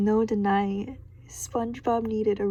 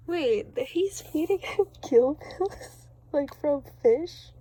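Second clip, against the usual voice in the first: surprised; 5 semitones higher than usual. Real, not acted. Reader shocked at the medicine.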